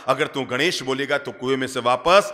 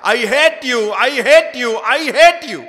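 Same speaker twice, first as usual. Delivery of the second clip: loud, high, building furious shout; child screaming into the jungle; angry yell; 8 semitones higher, 8 dB louder, much slower than usual. A narrator's reading. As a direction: hurl it into the forest, louder each time. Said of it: "जंगल में जोर से चिल्लाया".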